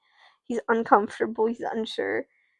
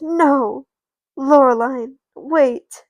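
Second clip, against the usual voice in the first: loud, higher-pitched plea to stop; calling after someone; 4 semitones higher, 7 dB louder, slower than usual. Acted. Mackenzie to fleeing Loreline, urgent call. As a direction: call out to halt a runaway.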